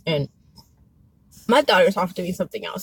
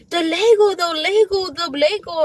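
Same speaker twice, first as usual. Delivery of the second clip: higher-pitched imitation of a panicking child; mock panic; 7 semitones higher, 3 dB louder than usual. Mom imitating her son frantic about a lost Lego, mock panic. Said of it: "panicking, and he's like".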